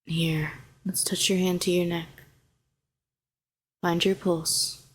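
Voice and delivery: calm, even, unhurried coaxing; soothing guidance. Acted. Helping a shaken hero find their pulse, soothing. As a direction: guide them gently back to steady breathing.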